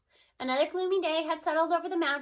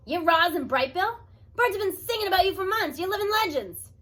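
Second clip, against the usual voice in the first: higher and louder, thrilled little creature; squeaking excitement; 5 semitones higher, 7 dB louder than usual. Acted. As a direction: gush like meeting a hero. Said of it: "the voice squeaked in excitement".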